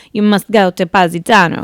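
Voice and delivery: lightly put-on thick Italian accent, done poorly; a hint of an Italian accent on the quote. Imitating the Italian man on the plane, poor Italian accent. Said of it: "I have to talk in his little thick accent".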